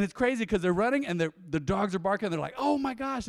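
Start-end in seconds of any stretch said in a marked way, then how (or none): 2.6-3.3 mock panic. Squirrel on power line above barking dogs, mock panic. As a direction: imitate a freaked-out squirrel.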